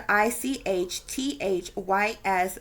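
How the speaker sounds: I C H T H Y S letter by letter; name each letter separately in I C H T H Y S; spelled out. Shown as a demonstration. Speaker repeats the spelling for viewers, spelled-out I C H T H Y S. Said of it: "it's spelled".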